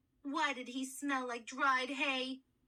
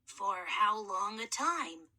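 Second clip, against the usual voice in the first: put-on a boy's voice unused for millennia; gentle, courteous mummy soothing a scared boy; hoarse mummy kid; 5 semitones lower, slower than usual. Mummy voice held.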